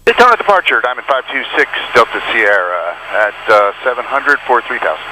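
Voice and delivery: crackly radio transmission; pilot over the radio. Real, not acted. Pilot reading back and calling departure.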